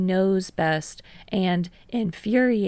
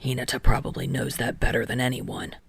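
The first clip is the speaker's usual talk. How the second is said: low, gentle and understanding; soft and understanding; 7 semitones lower, faster than usual. Acted. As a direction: ease into it kindly, low. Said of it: "His voice is soft and understanding".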